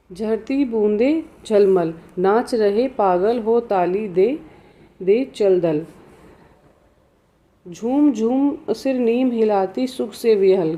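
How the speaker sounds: slow, measured verse reading; poem recitation. Acted. Teacher reads the poem to students, slow recitation. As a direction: draw out each line of the verse, pausing between lines.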